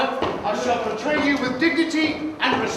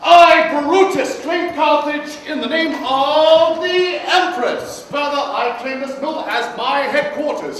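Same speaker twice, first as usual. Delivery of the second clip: pompous commander; 2 semitones higher, slower than usual. Acted. Actor playing Brutus.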